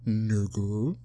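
"nigga" rising at the end like a question; question-like intonation. Shown as a demonstration. Showing a friend how she says it, questioning "nigga". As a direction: lift the end of "nigga", unsure. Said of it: "it sounds like a question".

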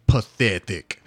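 put-on low, cold Russian accent; a wife's scornful Russian accent; a Russian wife sneering at him. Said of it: "he does it way better because he's got a Russian accent".

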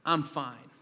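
soft, low self-reassurance; telling yourself. Retold or imitated. A dad telling himself he is fine, quietly. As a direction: murmur it to yourself to convince yourself. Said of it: "You tell yourself".

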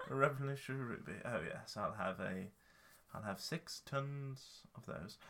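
a snooty cat, unhurried; posh cat voice. Pretend. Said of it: "This is our cat's speak now".

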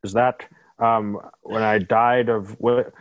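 lightly voiced, halting character; Alfred. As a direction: stumble slowly through it in character.

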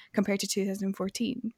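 ordinary talk, nothing marked

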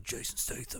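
low, quick London Statham voice; estuary English accent. Shown as a demonstration. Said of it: "a London accent too".

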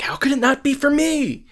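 hammed-up, high-pitched disbelief; mock indignant whine. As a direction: squeal it like a wounded drama queen. Whining that call is not his.

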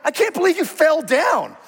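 high sneering put-on voice; mock harsh parent. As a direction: ham up a scornful parent. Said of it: "You're like".

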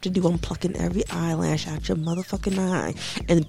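quiet menacing threat. Retold or imitated. Showing what angry with a calm voice sounds like, quiet menace. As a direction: threaten coldly without raising the voice. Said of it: "if people starts talking to you like this".

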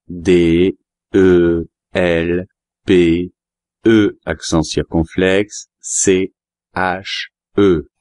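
slow, letter by letter; spelling it out. Acted. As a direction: spell each letter out slowly and clearly. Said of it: "Vous pouvez l'épeler". (épeler lentement, lettre par lettre)

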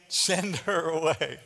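slow, dry "Send her away"; dismissive disciples. Retold or imitated. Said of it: "his disciples urged him".

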